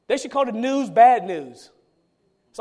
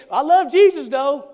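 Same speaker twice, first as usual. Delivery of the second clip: mock pious claim; 3 semitones higher, 5 dB louder than usual. Mocking Christians' hollow claim.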